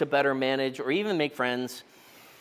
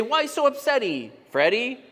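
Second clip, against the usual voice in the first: put-on kids' silly rhyme; 3 semitones higher than usual. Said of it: "my kids say".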